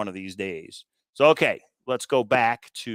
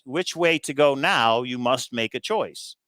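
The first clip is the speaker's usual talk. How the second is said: soothing voice. Retold or imitated. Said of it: "in a nice, soothing voice".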